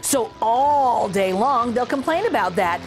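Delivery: lively read-aloud storytelling voice; story narration. A narrator's reading. Teacher reading a funny turkey book to children, lively storytelling. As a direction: read it like a bouncy rhyme for kids.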